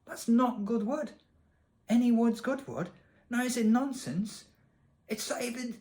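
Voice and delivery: high-pitched indignation, building to spluttering; exasperated rant. Real, not acted. Gamer ranting that damp twigs aren't good wood, exasperated. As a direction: lose all patience, voice straining high.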